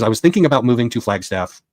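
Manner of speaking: light put-on Southern accent. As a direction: retell the juror's words with a hint of Southern accent. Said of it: "but I'm doing that because".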